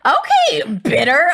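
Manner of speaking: sarcastic retort. Retold or imitated. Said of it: "I'm like".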